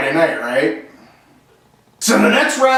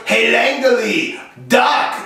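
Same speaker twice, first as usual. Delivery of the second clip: put-on French Canadian accent; 2 semitones higher, much slower than usual. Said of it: "he was French, he was from Quebec".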